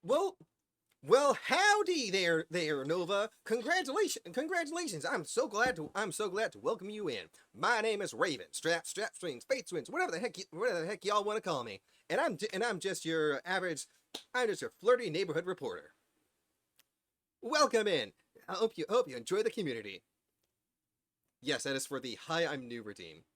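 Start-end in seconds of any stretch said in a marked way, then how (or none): 0.0-15.9 hammed-up Southern howdy for a newcomer; funny Southern accent. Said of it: "I'm just doing a funny little voice". 17.4-18.1 high, loud Southern welcome; funny Southern accent. Acted. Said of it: "of a southern". 18.5-20.0 quick, swooping Southern lilt; playful put-on Southern hospitality; funny Southern accent. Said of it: "I'm just doing a funny little voice".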